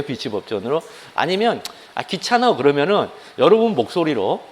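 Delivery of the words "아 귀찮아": high, whiny sigh of laziness; lazy whine. Retold or imitated. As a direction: whine like a bored student. Lazy student complaining. (귀찮아하는 수험생처럼 높게 칭얼대며)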